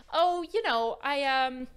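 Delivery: high, loud airy bluffing; hammed-up socialite fumbling for an answer; put-on socialite. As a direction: stall breezily as the fake rich girl. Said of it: "Sarah would say".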